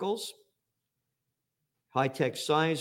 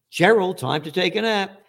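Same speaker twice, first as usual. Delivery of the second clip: put-on sing-song call to a child; teacher telling Gerald to nap; mock teacher voice; 5 semitones higher than usual. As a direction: mimic the teacher calling Gerald. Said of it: "that's exactly what they do".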